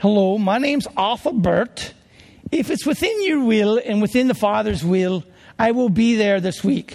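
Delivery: put-on English accent, an amateur attempt. Retelling answering a phone call while trying to pray, Arthur Burt's English accent. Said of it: "I'm going to try and do an English accent".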